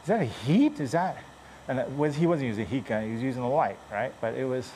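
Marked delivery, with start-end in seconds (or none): 0.0-1.2 curious customer, pitched high; quizzing the dent guy, higher and puzzled. Retold or imitated. Customer asking the dent repairman, high and puzzled. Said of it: "customers would, uh, go".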